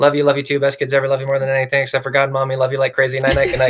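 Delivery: very fast, rapid-fire, run-on rattled-off delivery. Recounting saying goodnight to the kids: rattled off quickly. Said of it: "we say it very fast".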